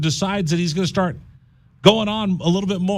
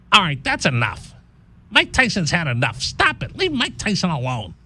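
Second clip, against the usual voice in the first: bad Mike Tyson impression. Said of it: "not a good Mike Tyson impersonation".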